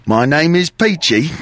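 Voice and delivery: slow British film-character accent. Shown as a demonstration. Host modelling the line for Hutch, British accent. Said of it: "very good British accent".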